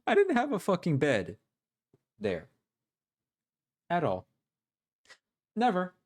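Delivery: high, dopey mock voice reading the boyfriend's lines; mocking dumb guy voice. Streamer mocking the boyfriend's messages in a high, dopey voice.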